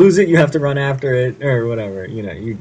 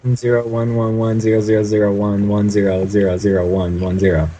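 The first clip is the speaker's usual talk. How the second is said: robot voice; 3 semitones lower than usual. Pretend. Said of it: "if I spoke in binary?".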